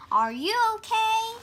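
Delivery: high, fast concerned friend voice; a bright worried little pig; worried Piggie. Acted. Worried friend asks Gerald.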